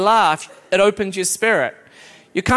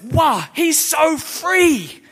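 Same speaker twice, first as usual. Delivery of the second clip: high, drawn-out cry on free; rising preacher shout; 6 semitones higher, much slower than usual. Real, not acted. Preacher crying out to the church, high and stretched.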